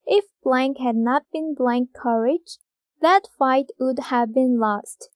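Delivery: very slow, word by word read; slow dictation. Shown as a demonstration. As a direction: dictate slowly for the class. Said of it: "다음에". (받아쓰기처럼 아주 천천히)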